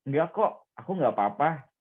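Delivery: lightly acted casual denial; mild pretence of being fine; feigned nonchalance. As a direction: brush it off as if nothing happened. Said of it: "Seolah-olah kayak kamu tidak".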